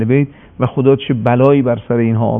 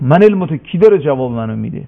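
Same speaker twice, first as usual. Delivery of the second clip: retold annoyance. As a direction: throw out an indignant challenge in mild mock anger. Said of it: "خیلی ناراحت شد". (با کمی خشم، نقل قول معترضانه)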